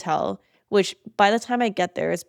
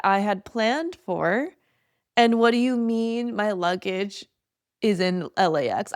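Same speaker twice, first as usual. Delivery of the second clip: teary retelling; slower than usual. Retold or imitated. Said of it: "I started crying".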